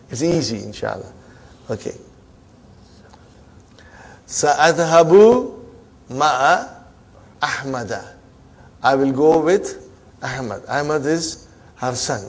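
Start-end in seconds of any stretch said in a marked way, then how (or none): 4.3-8.1 slow model reading. Shown as a demonstration. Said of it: "teacher models sentence slowly".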